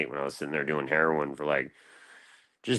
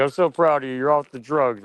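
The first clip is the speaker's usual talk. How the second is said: high, gushing mock praise, a little louder; 7 semitones higher, 5 dB louder than usual. People congratulating him on sobriety, high mocking gush. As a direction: gush like a patronizing well-wisher.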